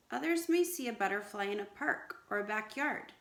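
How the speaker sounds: put-on lively storybook read-aloud to children; story reading. Teacher reading a story to her class, lively read-aloud. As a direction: read it out brightly like a picture book.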